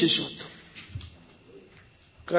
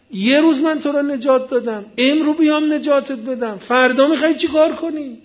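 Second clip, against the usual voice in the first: raised, remonstrating voice of Moses; acted exasperation; 5 semitones higher than usual. Moses asks what the man will do tomorrow, acted exasperation. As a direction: argue with him in a higher pitch, exasperated.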